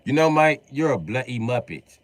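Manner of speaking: lightly put-on British insult; a hint of British; mock British. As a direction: call him a muppet like a Brit.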